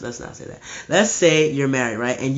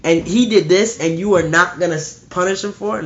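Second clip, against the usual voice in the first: louder, higher furious parent shouting at the judge; outraged parent; 6 semitones higher, 8 dB louder than usual. Retold or imitated. Grieving father yelling at the judge, louder outrage. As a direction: yell it at the judge in disbelief. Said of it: "You would be like".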